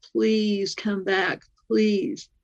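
slow, drawn-out begging. Retold or imitated. Begging the lost vision of heaven to return, slow. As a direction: plead for it to come back, slowly.

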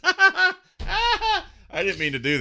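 laughing through the words, high and slow. Real, not acted. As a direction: break into laughter mid-sentence. Laughs at own slip reading email.

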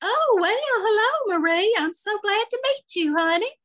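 very high, gushing Southern lady; excited and uncomfortable. Acted. Shirley meets her friend's daughter's partner, excited and uncomfortable. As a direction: shoot up an octave in awkward excitement. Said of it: "Her voice went up an octave, like she was excited and uncomfortable".

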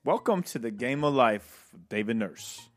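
playful put-on Australian accent, G'day mate style; mock Australian accent. Podcast host opening the show in a mock Australian accent. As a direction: greet them like a cheery Aussie host. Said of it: "Always wanted to have an Australian accent".

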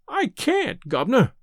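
high, pleading beggar's whine. A narrator's reading. Disguised fugitive begging the old gentleman, beggar's whine. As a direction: whine like a starving tramp. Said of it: "in a real beggar's whine".

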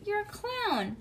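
high, thrilled announcement; delighted. Acted. Mother delighting in her daughter's clown face, high. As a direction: tell her proudly she's a clown.

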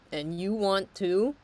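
words pushed out round a burp; burping mid sentence; talking while burping. Real, not acted. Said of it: "sorry, I'm burping up my lunch over here".

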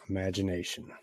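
soft, dreamy half-whisper; a hushed wonder; hushed musing. Acted. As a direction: breathe the word as if lost in thought. Muses on his wild idea.

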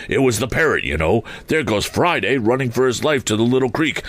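excited, quickening as the chase is spotted; between laughing and crying. Acted. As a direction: point it out with mounting glee. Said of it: "extraordinary voice between laughing and crying".

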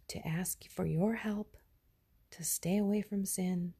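prayer. Real, not acted. Spoken prayer to God.

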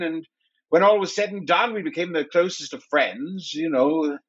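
English hunter. Acted. Jack tells his backstory in character.

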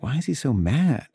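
half-laughing, puzzled question; laughing bewilderment. Retold or imitated. Retelling the author's rude answers, laughing in disbelief. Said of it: "And I was like".

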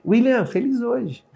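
high, slow, cheery "William, feliz hoje."; sing-song cheer. Shown as a demonstration. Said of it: "Escreve aí".

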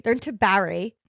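East Coast vowel on "Barry"; East Coast accent. Shown as a demonstration. Telling about friends, "Barry" in East Coast accent. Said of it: "that's how East Coasters say Barry".

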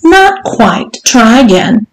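lightly condescending, high-pitched prompt; patronising correction. Acted. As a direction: correct him with mock patience. Mistress correcting her servant.

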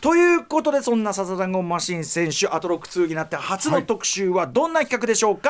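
drawn-out, emphatic segment intro; show-host introduction. Acted. Host introducing the wrestler's first feature, presenting. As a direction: pitch up at the start, then present it clearly.

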